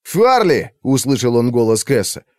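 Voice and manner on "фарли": higher, louder alarmed call. Acted. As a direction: call his name in alarm. Kes calls out to Farli. (Кэс окликает Фарли с тревогой)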